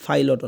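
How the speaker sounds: পাইলট said as fai-lot. Shown as a demonstration. Teacher shows another wrong pilot, F sound. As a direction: open the lips into an F on পাইলট. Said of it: "পাইলট না, পাইলটও না".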